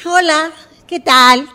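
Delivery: loud, high, drawn-out hello; effusive greeting. Acted. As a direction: burst out with an over-eager greeting. Acted over-eager greeting after counting down. (saludo efusivo, fuerte y agudo)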